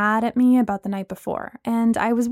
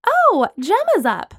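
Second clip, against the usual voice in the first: high, bright excited exclamation; delighted at seeing a friend; excited call; 10 semitones higher, 5 dB louder, slower than usual. Acted. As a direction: call out happily, loud and slow. Excited friend spots Gemma.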